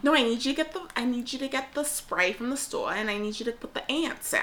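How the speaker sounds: mère juive exigeante, à peine jouée; mère juive insistante sur les fourmis. Pretend. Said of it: "That's Jewish mom".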